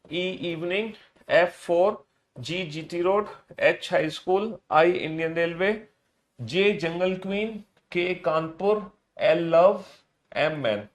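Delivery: measured chant with rising pair endings; sing-song alphabet drill in even pairs; model recitation. Shown as a demonstration. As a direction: recite a memory list for the class. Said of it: "जैसे मैं बोल रहा हूं ना बिल्कुल same".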